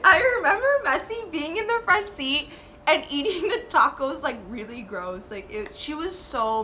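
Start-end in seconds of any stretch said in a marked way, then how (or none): 0.0-4.2 laughing. Real, not acted. Laughing while recalling Messi.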